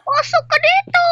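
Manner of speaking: high, loud woman's voice; shrill teacher voice. Acted. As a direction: call out like a strict teacher. Teacher voice calls out.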